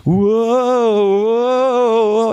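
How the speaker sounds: high, loud sliding whoa; a cartoon soap slipping away, yelping; Slippery Soap. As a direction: the speaker voicing Slippery Soap sliding around. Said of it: "'Cause he'd be like".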